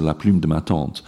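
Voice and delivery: proper French la plume de ma tante with rounded U and nasal vowel; French accent. Shown as a demonstration. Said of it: "two phonemes that are really hard".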